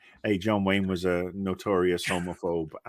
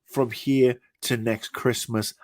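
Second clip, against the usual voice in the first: 1 mock rant at fanboys; 4 semitones higher than usual. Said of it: "let me address those fanboys".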